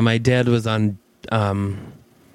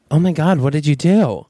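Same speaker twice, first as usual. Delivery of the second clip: louder panicked question; alarmed; 3 dB louder than usual. Retold or imitated. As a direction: demand it in fright. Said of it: "you're like".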